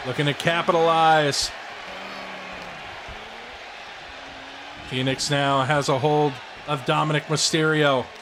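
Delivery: wrestling announcer call; play-by-play commentary. Acted. Plays the commentator.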